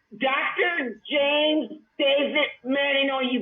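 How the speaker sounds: preacher-style shout. Real, not acted. Threatening to preach like Manning.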